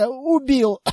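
strained, gasping through coughs; coughing. Acted. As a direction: choke out the word. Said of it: "просипел чистильщик".

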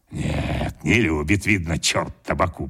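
put-on low old man's grumble; a low, wry old man's aside; grandfather muttering. A narrator's reading. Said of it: "продолжал он".

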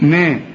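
نا thin and fronted, toward "nae"; light n. Shown as a demonstration. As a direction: demonstrate a light نا. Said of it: "كل نون في القرآن مرققة". (نون مرققة في نا)

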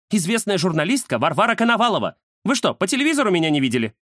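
high, affronted journalist; self-important indignation. Acted. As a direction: announce yourself, offended, in a high voice. Offended celebrity in acted quarrel. (возмущённая звезда, высокий голос)

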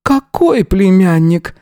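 put-on high, slow voice of a wary old woman; old gypsy woman. A narrator's reading. Old woman feigning ignorance to the detective, high and slow.

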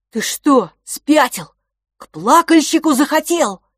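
high loud frightened anger; alarmed scolding. Acted. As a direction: yell at a reckless brother.

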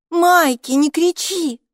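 put-on an older sister telling her sibling off; hushing sister. A narrator's reading. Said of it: "попросила Хилла".

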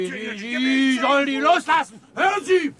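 high, loud commanding yell; shouted order. Acted. Gentleman shouts at the sailor to release the waiter, loud high command. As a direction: make him let go now.

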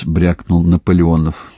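ordinary delivery, nothing marked

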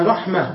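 "رحمة" stopped on a breathed h, "rahmah"; pausal h ending. Shown as a demonstration. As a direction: end "رحمة" on h, no t. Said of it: "تقف عليه بالهاء".

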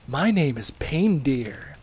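slow, eager creep; costumed weirdo introducing himself to Santa; creepy candidate voice. Acted. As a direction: introduce yourself like a sleazy oddball.

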